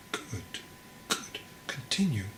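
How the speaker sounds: hushed, gentle good, good; quiet old monk praising his student; soft approval. Acted. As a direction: murmur it encouragingly, very soft. Monk encourages softly.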